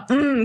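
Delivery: put-on catchphrase hum; imitated hum. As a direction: hum an exaggerated "mm". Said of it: "Don't ask me to go".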